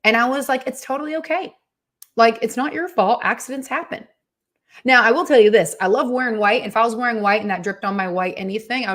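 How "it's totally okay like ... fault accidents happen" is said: calm reassurance. Retold or imitated. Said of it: "thank you for being so calm about it".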